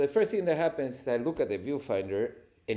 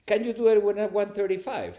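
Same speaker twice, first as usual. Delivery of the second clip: louder, higher crew request; called-out request; 8 semitones higher, 6 dB louder than usual. Retold or imitated. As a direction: call it across the set. Crew shouting request over set.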